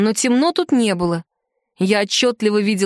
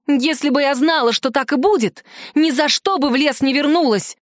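higher, heated exclamation; exclaiming in anger; 4 semitones higher than usual. Acted. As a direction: blurt it out in frustration. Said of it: "в сердцах воскликнула я". (в сердцах, с досадой воскликнуть)

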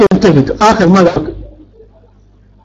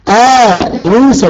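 slow demo word; much slower than usual. Shown as a demonstration. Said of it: "لا حرف إلا أو لا؟".

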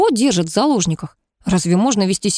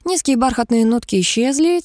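ordinary delivery, nothing marked

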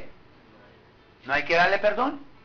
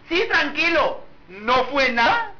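false humility; 5 semitones higher, slower than usual. Retold or imitated. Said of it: "fingiendo una falsa humildad".

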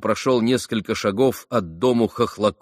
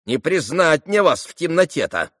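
lightly voiced old servant, higher; changed old-woman voice; 7 semitones higher, 3 dB louder than usual. A narrator's reading. Old servant unable to recognise him in darkness, changed voice. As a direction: soften the wail into high-pitched peering talk. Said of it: "совсем другим голосом проговорила старушка".

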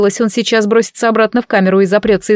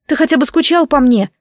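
exasperated plea; 6 semitones higher than usual. Acted. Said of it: "всплеснула я руками".

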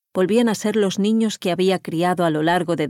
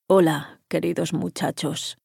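put-on hollow, cavernous old voice; slower than usual. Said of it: "saludó con voz cavernosa".

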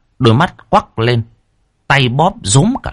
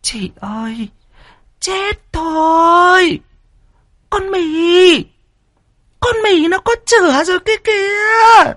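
high, wailing, crying shout; panicked; slower than usual. Acted. Third wife crying out that the maid is pregnant, panicked. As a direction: break down in alarm.

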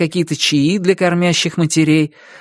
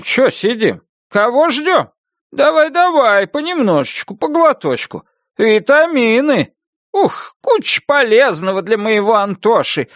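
cutesy coaxing; 6 semitones higher than usual. Acted. Grandpa coaxing her with baby talk.

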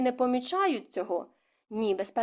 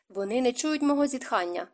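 smiling reply; 3 semitones higher than usual. Acted. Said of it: "з усмішкою сказав той".

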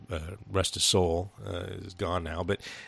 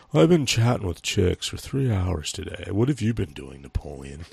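lightly voiced movie slacker brother; a hint of a character voice, dropping at the end; Kip. Bragging to Napoleon about online chatting, lightly imitated Kip. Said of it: "here's a little bit of his dialogue".

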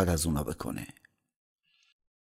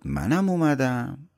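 defiant echo; 4 semitones higher, 5 dB louder, slower than usual. A narrator's reading. Guest echoes the demon's cry.

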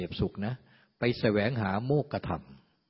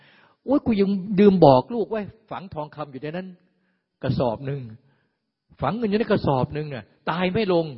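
higher, fretful cry of a dying miser; a dying rich man fretting over his buried gold, higher and anxious; 5 semitones higher than usual. Retold or imitated. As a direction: wail like a rich man who can't let go.

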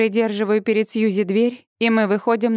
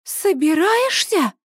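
high, slow, aghast question; shocked into disbelief; horrified exclamation; 8 semitones higher, slower than usual. A narrator's reading. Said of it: "с ужасом восклицает Сьюзи". (с ужасом, высоко и протяжно)

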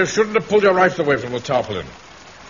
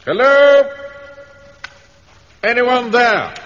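calling out; 11 semitones higher, 5 dB louder, much slower than usual. Acted. Calling out in dark house.

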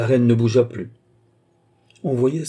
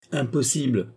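firm; 4 semitones higher than usual. Acted. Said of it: "répliqua fermement la reine".

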